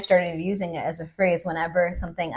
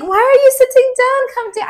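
high, loud mock Russian accent; Russian accent attempt; 9 dB louder than usual. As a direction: put on a clumsy Russian guy's accent. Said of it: "I can't even do that accent".

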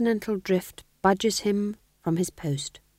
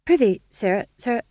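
higher, eager jester patter; jester fool; 6 semitones higher, 5 dB louder than usual. Acted. Fool replying to the Duke in jester talk, higher. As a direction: chirp it like a court fool. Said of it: "swallowed nervously".

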